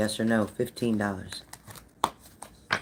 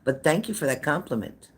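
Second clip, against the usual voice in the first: hammed-up sarcastic thanks; 5 semitones higher than usual. Real, not acted. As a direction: overplay the thanks to mock him. Sarcastic thanks to a rude chatter.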